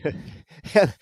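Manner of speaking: breaking into a laugh; laughing mid-sentence. Real, not acted. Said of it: "try to keep a straight face".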